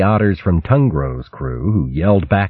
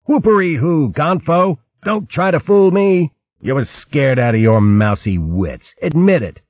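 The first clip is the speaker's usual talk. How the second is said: high, hearty river otter crowing; gleeful otter; 9 semitones higher than usual. Acted. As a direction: crow with delight.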